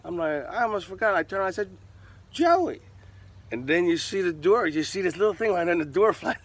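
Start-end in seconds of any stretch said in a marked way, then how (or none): 2.3-2.8 higher, louder call across a gym; shouting for Joey to come over. Retold or imitated. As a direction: call your buddy over from across the room. Calling his friend across the gym.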